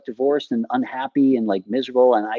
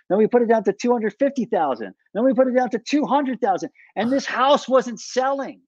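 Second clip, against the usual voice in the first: exasperated escalation; 9 semitones higher than usual. Real, not acted. Seller recounts price drop after price drop, exasperated. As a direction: pitch held high, each step insistent.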